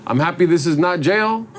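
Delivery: put-on short, halting lines in a Latino accent. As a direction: speak in a laid-back Latino accent. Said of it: "it's the Latino voice here".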